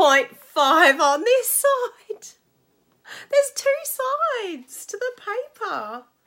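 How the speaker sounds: put-on high, slow, overwhelmed gush, near tears.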